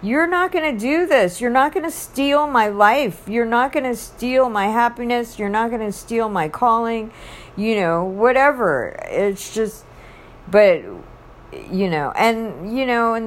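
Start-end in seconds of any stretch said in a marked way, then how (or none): 0.0-7.1 raised, fiery pitch telling the enemy off; defiant rebuke. Pretend. Believer rebuking the enemy, higher-pitched defiant pushback. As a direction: stand up to him, you won't steal my life. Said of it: "then we can start to get pissed off and just be like".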